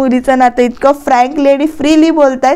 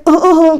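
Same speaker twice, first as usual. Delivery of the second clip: pointed fake cough, a little higher; 4 semitones higher than usual. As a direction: clear the throat to interrupt. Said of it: "करतात असं". (मुद्दाम खोटा खोकला)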